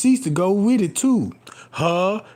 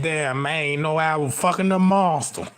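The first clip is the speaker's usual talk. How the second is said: lower, mock rueful mutter; regretful mutter; 5 semitones lower, 3 dB quieter than usual. Man realizing who he slept with, low and rueful. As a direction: grumble it like he regrets it. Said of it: "be like".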